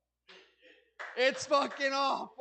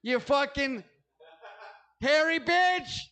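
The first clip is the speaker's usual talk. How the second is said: higher, louder, slow mock insult; mock furious insult; 5 semitones higher, 3 dB louder than usual. Comic insulting the cashier, slowed mock fury.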